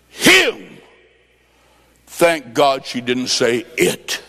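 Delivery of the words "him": squeaked-out punchline, much higher and louder; woman's surprise answer, high and sharp; sudden high cry. Retold or imitated. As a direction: pop the last word up high.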